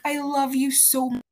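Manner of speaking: put-on high, gushing drunk declaration. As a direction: lightly imitate drunk affection. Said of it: "she's like".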